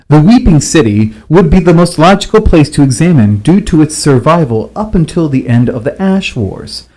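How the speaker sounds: a lightly voiced professor in a lecture hall; scholarly tone. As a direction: read it out like a formal scholar's journal. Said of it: "I'm gonna read it in the scholarly tone it's written".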